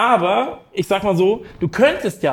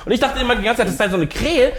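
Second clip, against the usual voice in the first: chuckling through the line; telling it while laughing; 3 semitones higher than usual. Shown as a demonstration. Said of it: "ich mach's nochmal ein bisschen trockener".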